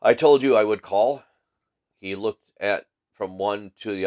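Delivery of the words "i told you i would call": put-on German accent. A narrator's reading. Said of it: "a strongly marked German accent".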